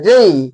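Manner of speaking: जे falling into an 'ey' glide; correct letter J. Shown as a demonstration. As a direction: say जे as 'jey', tailing off into i. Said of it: "ऐसे होता है".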